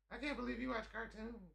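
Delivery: high, incredulous scolding imitation; mock scolding woman. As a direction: judge him with disbelief. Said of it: "looked me in the face and said".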